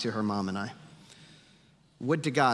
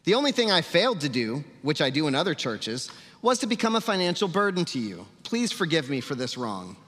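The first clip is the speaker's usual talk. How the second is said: Paul/character; 2 semitones higher than usual. Acted. Preacher voicing Paul to a church he never charged, sarcastic. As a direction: lift the complaint, then drop into a sarcastic plea. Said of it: "I hope y'all enjoy sarcasm".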